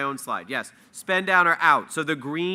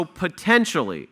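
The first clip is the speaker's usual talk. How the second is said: potentially stressed, pitched up then falling; emphasis on potentially; 3 semitones higher, slower than usual. Real, not acted. Presenter cautioning listeners about eligibility, emphasis on potentially. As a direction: lean firmly on the word potentially. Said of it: "I emphasize the word potentially".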